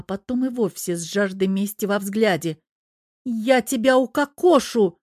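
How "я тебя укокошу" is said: loud, higher, slowed threat; furious bark. Acted. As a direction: bark it at her husband. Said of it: "рявкнула Тереза". (яростно рявкнуть)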